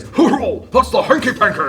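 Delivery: put-on high, slow old-timey exclamation. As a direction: announce it like an old-time gentleman. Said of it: "I imagine he said it like this".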